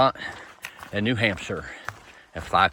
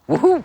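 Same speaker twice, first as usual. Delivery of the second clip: high, loud whoop; celebratory woohoo; 11 dB louder than usual. Real, not acted. Hiker cheering the last stretch into Hanover, high whoop. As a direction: let out a quick high cheer. Cheering the remaining short distance.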